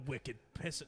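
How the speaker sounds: put-on Boston accent; mock Boston slang delivery. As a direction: imitate a Bostonian. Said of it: "That was, like, Boston".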